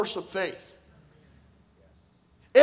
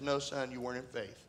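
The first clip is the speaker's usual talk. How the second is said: softly retold gentle pastor; hushed, gentle correction; 10 semitones lower, 13 dB quieter than usual. Pastor gently correcting a grieving son, soft and low. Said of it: "As gentle as he could".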